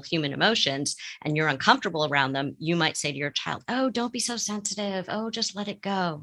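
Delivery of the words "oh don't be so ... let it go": higher-pitched, soft brush-off; lightly voiced parent waving away feelings; dismissive parent. Therapist voices a parent brushing off a sensitive child, lightly dismissive.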